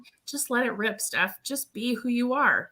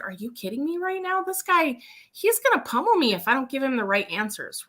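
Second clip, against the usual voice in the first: retold alarm; 3 semitones higher than usual. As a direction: protest to your guide in playful disbelief. Retold alarm at the big biker.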